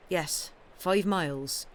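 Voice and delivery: slow, hesitant reply; grudging slow answer; reluctant. Acted. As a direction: hold back, unwilling to say it. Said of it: "said Rhoda backwardly".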